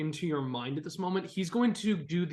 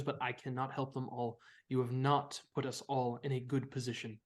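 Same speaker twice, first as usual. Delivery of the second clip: low, solemn, measured counsel; a hint of a wise old creature; Rod the dragon, grave; 4 semitones lower, 4 dB quieter than usual. GM voices Rod, grave advice.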